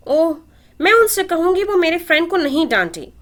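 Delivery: put-on a toddler promising to protect her friend; worried little girl. A narrator's reading. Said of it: "फिक्रमंद हुई थी".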